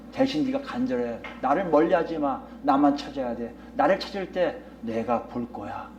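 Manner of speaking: low, softened voice of comfort; gentle, low-pitched promise, mostly hushed; reassuring. Retold or imitated. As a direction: voice God calming a worried prophet. God reassuring Jeremiah in quote.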